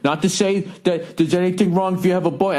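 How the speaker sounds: high-pitched, hedging older clerk imitation; man in his sixties. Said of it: "this is a guy in his sixties".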